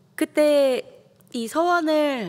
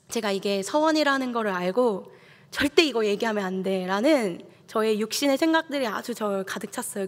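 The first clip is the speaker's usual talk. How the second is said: ordinary talk, nothing marked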